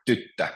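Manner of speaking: tyttö with the stress on TYT; first-syllable stress. Shown as a demonstration. Teacher gives Finnish example for girl, stress on first syllable. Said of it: "stress is always on the first syllable".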